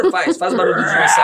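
loud excited call; shout. Real, not acted. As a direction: call out across the room. Asks for dinosaur noise, shouting.

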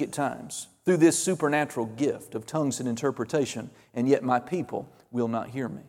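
soft, solemn prophecy, sinking low at phrase ends; prophetic utterance. Real, not acted. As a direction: deliver God's message quietly and gravely. Gives interpretation as God's message.

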